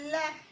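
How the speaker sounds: لح with a full l, ending on a breathed ḥ; lah, resting on the final ḥ; stopping on ḥa. Shown as a demonstration. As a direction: stop لح on the ḥa with no vowel. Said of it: "نقف على الحاء".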